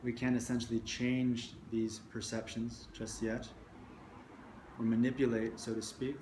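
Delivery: measured meditation guiding with long pauses between phrases; guided meditation. Real, not acted. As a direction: guide listeners into the body, leaving space after each phrase.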